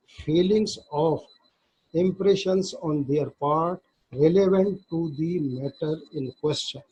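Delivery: slow, deliberate reading of legal text; slow statute reading. Shown as a demonstration. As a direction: read the act slowly, word by word, as if dictating. Reads statute text aloud. (धीमे-धीमे क़ानून की धारा पढ़ना)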